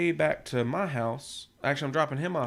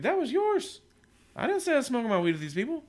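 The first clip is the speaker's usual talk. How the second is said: heated retold protest; 9 semitones higher, 4 dB louder than usual. Retold quarrel with friend in car.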